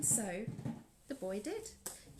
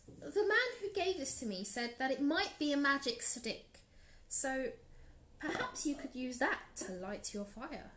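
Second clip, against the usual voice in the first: softer, lightly voiced boy; gentle boy; 3 semitones higher, 5 dB quieter than usual. Boy suggests the magic stick to the lady, softly. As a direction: offer the idea shyly.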